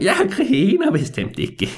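put-on high, drawn-out old man's denial; stretched, high-pitched old codger; indignant old man. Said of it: "den gamle mand, han var sådan".

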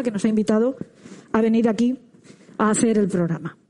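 muffled behind a face mask; speaking through mask. Real, not acted. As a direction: talk with a mask over mouth. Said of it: "tuvimos que hablar con la boca cubierta por la mascarilla".

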